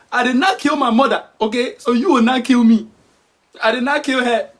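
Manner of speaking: hammed-up motherly outrage; indignant African mother. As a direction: scold as the wronged mother. Acted mother's indignant tirade.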